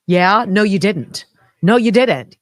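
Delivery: loud accusing retort; angry. Real, not acted. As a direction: call them out, loud. Heated rant at vaccine makers.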